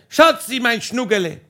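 yelling sweet nothings down from the roof; calling out pet names. Retold or imitated. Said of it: "ich hab geschrien".

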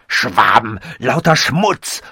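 slow, loud, scornful completion; loud interruption. A narrator's reading. Robot finishes the narrator's sentence, very loud. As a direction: cut in loudly and draw the words out. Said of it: "vollendete er so laut".

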